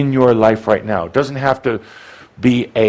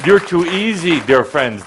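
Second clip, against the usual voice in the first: ordinary talk, nothing marked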